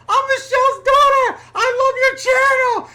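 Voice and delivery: high, loud excited fan yell; retold yell. Fan yelling from her SUV on the highway, excited shout. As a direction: shout it like a thrilled fan across lanes. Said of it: "and she yells".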